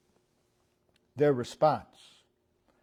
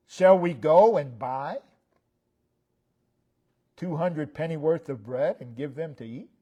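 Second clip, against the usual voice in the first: sarcasm; 3 dB louder than usual. Retold or imitated. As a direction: ask it with pointed disbelief. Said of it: "of sarcasm in those words".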